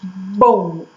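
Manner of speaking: "Bom" said as one single syllable; one-syllable demo. Shown as a demonstration. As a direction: say "Bom" in one mouth opening. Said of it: "Quantas vezes eu abro a boca".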